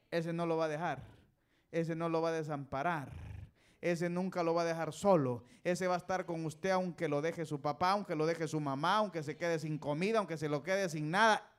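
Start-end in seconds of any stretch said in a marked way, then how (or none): 1.7-11.5 insistent, driving list with punched phrase ends; building emphatic preaching. Real, not acted. Preacher assures congregation God never leaves them, emphatic preaching. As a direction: preach it harder with each clause.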